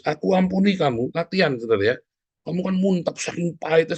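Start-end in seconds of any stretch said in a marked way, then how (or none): 0.1-1.1 grudging forgiveness. Shown as a demonstration. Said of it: "Kamu harus".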